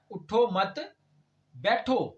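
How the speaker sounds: "اٹھو مت", clear pause, then "بیٹھو"; group "مت" with "اٹھو", set "بیٹھو" apart; pause after مت. Shown as a demonstration. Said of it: "مطلب کیا ہے؟ بیٹھے رہو، اٹھو مت". ("اٹھو مت" کے بعد وقفہ، پھر "بیٹھو")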